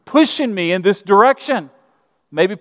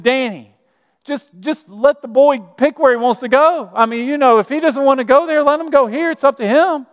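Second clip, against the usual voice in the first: mom stepping in; 6 semitones higher than usual. Retold or imitated. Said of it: "my mom to interject and said".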